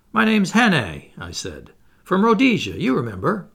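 loud bright "Well met" dropping on "my lad"; cheery hail. Acted. Narrator grabs Jopley's shoulder, hearty and loud. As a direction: greet him with mock heartiness. Hannay introduces himself to Jopley.

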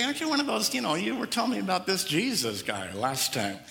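lightly voiced bystander poking at Peter; a hint of a nosy local, teasing; mock accuser. Preacher voicing a bystander, teasing Peter.

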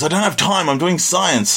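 distracted scientist dad. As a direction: brush him off like a busy scientist. Dib's dad quote.

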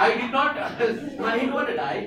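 put-on high laughing child protest; mock child voice. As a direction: whine it like a kid, laughing. Child voice, acted quote.

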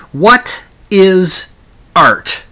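a high, loud, booming question; startling loud opening. Shown as a demonstration. Vlogger startling his viewers, loud booming question. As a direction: jolt the listener awake with it. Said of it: "Did that startle you?".

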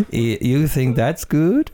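slow attempt at French accent; badly faked French accent, drawn out. Host retries the Frenchman's line for the joke, bad French accent. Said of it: "Is that your French accent?".

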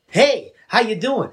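slow, lilting flirty-style greeting; alternate reading. Shown as a demonstration. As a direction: stretch out "Hey" with a lift. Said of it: "read it thirty different ways".

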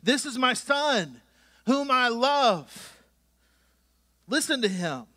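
slow, solemn and deliberate, with long pauses; voice of God. Acted. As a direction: let each word land like a divine pronouncement. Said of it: "and this is God speaking".

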